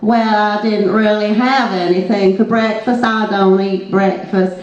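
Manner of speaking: put-on Texan accent, slowing at the end; bad Texan accent. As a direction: answer in a slightly hammy Texan accent. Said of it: "in a Texan accent".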